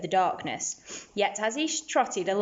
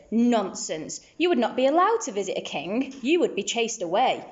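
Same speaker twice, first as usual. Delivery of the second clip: a lightly voiced sneer, a bit higher and faster; sneering camel; 3 semitones higher than usual. Camel sneering at the little donkey, mock scornful. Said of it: "The camel sneered".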